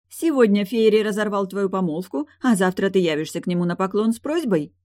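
sister's voice climbing in disbelief; falsetto. Acted. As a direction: rise toward a falsetto. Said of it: "Голос Тильды напоминал фальцет".

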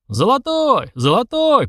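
high, repeated crowd calls; crowd shouting. A narrator's reading. Onlookers backing the demanded stake, shouting high. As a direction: take up the cry in a high voice. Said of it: "поддержал несколько голосов".

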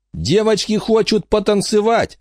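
high, sleazy thug voice; leering young hoodlum. Acted. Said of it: "сказал Дэрил".

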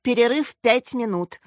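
measured official announcement; announcing. A narrator's reading. PE teacher declaring the break, announcing. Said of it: "объявил Пётр Анатольевич".

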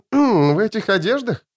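coughing, high doubt; high, coughing disbelief. A narrator's reading. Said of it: "кашлянула она".

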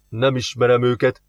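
lightly voiced wary neighbour; distrustful grump. Neighbour denies knowing the Crosses, mildly distrustful. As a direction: brush them off with mild distrust.

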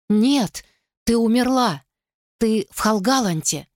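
high, frightened protest; terrified denial. A narrator's reading. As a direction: deny it in terror. Terrified girl denies ghost.

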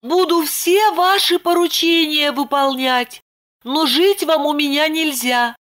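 put-on high, begging young woman; Lipochka pleading. A narrator's reading. Lipochka begging Roman to leave, high pleading voice. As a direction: plead with him to go.

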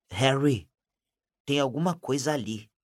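hoarse, hushed warning. Acted. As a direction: rasp it out hoarsely. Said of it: "disse Rony rouco".

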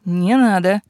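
croaking after a coughing fit; hoarse croak. Acted. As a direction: rasp it out hoarsely. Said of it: "прохрипела я". (хриплым голосом)

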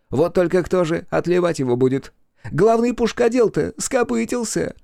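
high-pitched, gleeful mockery; mock the idea of a monument, high and lively; jeering. A narrator's reading. Joker scoffs at honouring the dead, jeering. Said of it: "продолжал глумиться Эрик".

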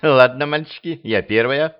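as if hypnotized. Acted. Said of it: "как под гипнозом проговорила".

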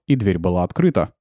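ordinary delivery

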